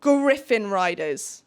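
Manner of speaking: slow, weighty announcement; dramatic reveal. Shown as a demonstration. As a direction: draw it out for the big reveal. Dramatic reveal after a teaser question.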